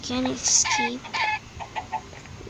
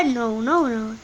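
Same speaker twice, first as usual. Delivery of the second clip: laughing no no no; 3 semitones lower than usual. Real, not acted. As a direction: protest through a laugh. Laughing protest.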